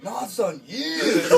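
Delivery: high, loud mock wail building on the last word; exasperated correction. Inmate corrects months to years, hammed-up loud wail. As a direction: wail the punchline as the sentenced inmate.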